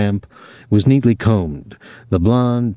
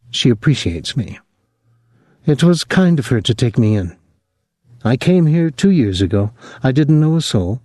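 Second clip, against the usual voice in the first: hint of French Canada; 4 semitones higher than usual. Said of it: "She spoke in a low voice, always without inflection".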